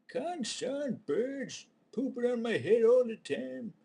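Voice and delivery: high, loud, slow furious yell; fist-shaking rage. Retold or imitated. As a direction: rage at the sky, dragging it out. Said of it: "shaking his fist".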